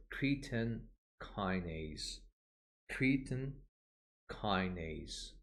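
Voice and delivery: "creatine kinase" as KREE-tin KY-nayz, in separate words; careful pronunciation demo. Shown as a demonstration. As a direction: model "creatine kinase" word by word with pauses. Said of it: "work on the pronunciation of this word".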